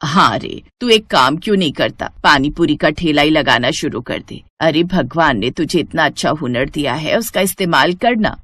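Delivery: a hint of an encouraging mother; lightly voiced village mother. Mother urging her son to start a stall, lightly voiced mother.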